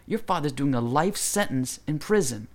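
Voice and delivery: imitated yelling. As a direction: scold the kid in a retold telling-off. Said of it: "He's, like, yelling at these kids".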